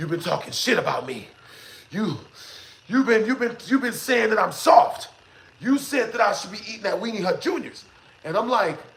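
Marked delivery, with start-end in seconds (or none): 0.0-7.8 put-on angry, tearful, mad crying voice. Retelling the little sister's accusation: imitating an angry tearful sister. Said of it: "she's mad. She's got tears running down her face".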